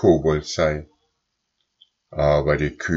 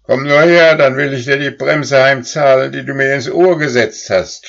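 much higher and louder, furious; screaming cow; 8 semitones higher, 7 dB louder than usual. A narrator's reading. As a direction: scream it at him. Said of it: "schrie Goldlilie".

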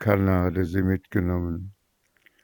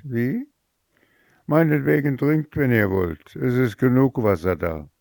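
rude scorn; 6 semitones higher than usual. Acted. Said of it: "Diese antwortete, wie zu erwarten stand".

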